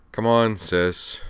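slow, weary coaxing of a sister; resigned. Acted. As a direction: sigh it out, tired of this. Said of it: "said Homare Nakajima resignedly".

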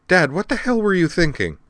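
high-pitched, incredulous scolding; exasperated. Acted. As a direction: take your father to task. Daughter confronts father over risk.

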